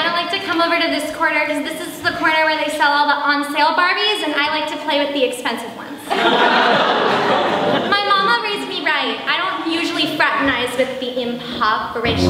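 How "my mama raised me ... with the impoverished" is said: snobbish drawl. Acted. Snobbish Barbie-collector character.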